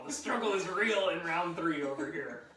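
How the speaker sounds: laughing. Real, not acted. Laughing at a struggling participant.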